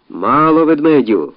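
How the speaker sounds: high, loud angry yell; angry shout. Acted. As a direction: shout him down in anger. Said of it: "кричали на нього злісно".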